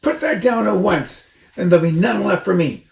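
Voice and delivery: high, loud squeaky shriek; shrieking Rat. A narrator's reading. Rat shrieks at Mister Fox to leave. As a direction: screech like an outraged rat.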